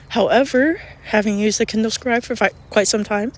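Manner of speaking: congested, breathing through the mouth; heavy breathing. Real, not acted. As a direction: talk while breathing heavily through a blocked nose. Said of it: "sorry for my, like, heavy breathing and stuff".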